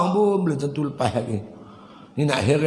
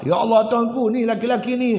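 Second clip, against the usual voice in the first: a higher pleading wail to God; wailing wife; 5 semitones higher than usual. Acted. Wife pleading before God, a wailing cry. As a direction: cry out in despair, blaming him. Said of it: "Lagi bini menyerit pula".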